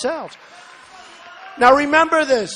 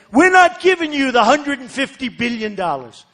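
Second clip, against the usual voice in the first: put-on blunt old way; 3 semitones higher than usual. Shown as a demonstration. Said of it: "So in the old days".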